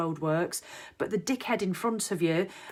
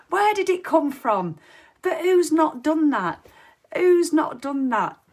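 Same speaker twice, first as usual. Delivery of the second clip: louder, higher, slow, still laughing; 7 semitones higher, 7 dB louder, slower than usual. Real, not acted. Amused at her own rant, laughing while asking. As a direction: talk through giggles.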